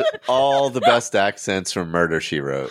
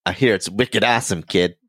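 put-on Boston accent. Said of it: "We're so bad at accents".

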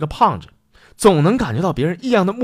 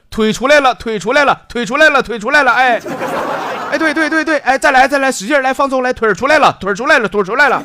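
excited midwife; 7 semitones higher than usual. Acted. Vet urging the centipede mother through labour, high and excited. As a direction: cheer the mother on like a frantic vet.

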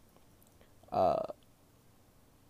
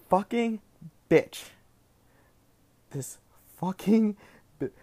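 road rage; 5 semitones higher than usual. Real, not acted. Road rage at Michigan driver.

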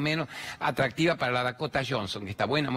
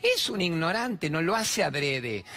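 mock excuse; 5 semitones higher, much slower than usual.

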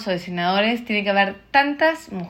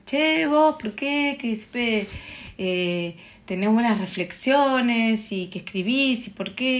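friendly curious question; 3 semitones higher than usual. Retold or imitated. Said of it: "me lo preguntaron bien".

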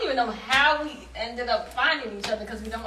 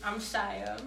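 flat intro; 3 semitones lower, 8 dB quieter than usual. Real, not acted. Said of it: "put some oomph behind it".

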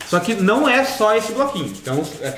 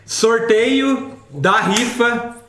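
prize announcer; much slower than usual. Acted. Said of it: "agora sério".

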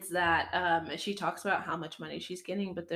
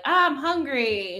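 put-on whiny child voice; 6 semitones higher, 9 dB louder, much slower than usual. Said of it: "is like".

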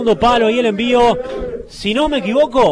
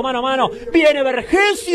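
excited; 3 semitones higher than usual. Real, not acted. Build-up right before the goal.

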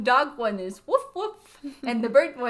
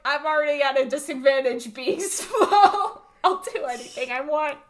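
laughing mock quote; 3 semitones higher, 5 dB louder than usual. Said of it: "he meant it like".

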